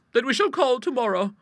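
put-on firm, high old lady resolve; decisive. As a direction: settle it like a firm spinster. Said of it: "with decision".

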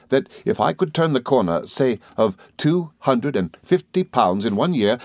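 lightly voiced good-natured friend; a hint of an earnest, rambling chatterer; Traddles, earnestly listing.

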